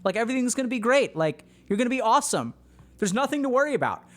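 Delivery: overbright parent reassurance; false positivity. Retold or imitated. Parent covering fear with forced cheer. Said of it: "false positivity that the parents are like".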